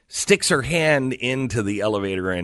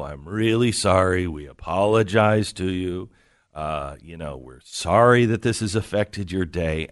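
apologetic; 4 semitones lower than usual. Retold or imitated. Friend apologizing to the annoyed woman, apologetic. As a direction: imitate a mild, conciliatory apology.

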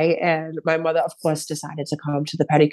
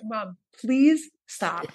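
slow, drawn-out begging; exasperated plea; 3 semitones higher, 4 dB quieter, much slower than usual. Retold or imitated. Daughter begs mother to stop, exasperated. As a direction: stretch out the please, worn down.

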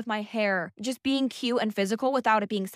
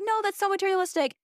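mock judgy voice; 10 semitones higher, faster than usual. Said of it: "'cause I'm like".

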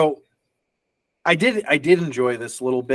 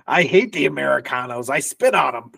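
fake Spanish accent. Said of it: "the worst fake Spanish accent patois ever".

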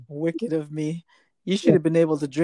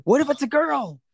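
worried question; 9 semitones higher than usual. Retold or imitated. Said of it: "I said".

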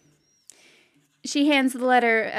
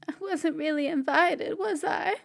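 put-on sad little boy; 5 semitones higher than usual. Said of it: "Seamus looks so sad".

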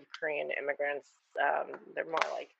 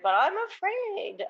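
much higher, slow, imitating a worried mom; a light mock of mom's fear; mom afraid; 14 semitones higher than usual. Mom telling her daughter she fears the rioting, mock-worried high voice. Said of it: "but she's like".

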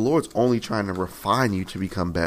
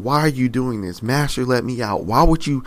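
desperate pleading; 3 semitones higher, 4 dB louder than usual. Retold or imitated.

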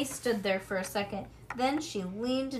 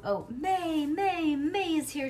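high, loud, gleeful calling of the name; a girl's happy high yell; excited shout; 7 semitones higher, 5 dB louder, slower than usual. A narrator's reading. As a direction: shout it out the window, thrilled. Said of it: "she shouted through the window opening".

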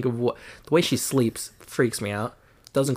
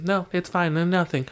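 higher-pitched imitation of a moody child; higher, dismissive mock-kid denial; mimicked brush-off; 6 semitones higher than usual. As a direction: mimic a child shrugging off questions. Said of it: "changes her attitude".

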